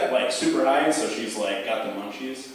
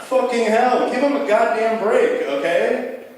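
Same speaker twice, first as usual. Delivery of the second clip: loud, higher exasperated rant; exasperated outburst; 10 semitones higher, 6 dB louder, slower than usual. Real, not acted. Comedian defending grandpa, loud exasperated outburst. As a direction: vent in half-joking outrage. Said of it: "comedian exasperated rant".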